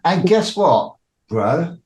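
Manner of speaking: teasing tease. Retold or imitated. Voicing Cobra teasing again.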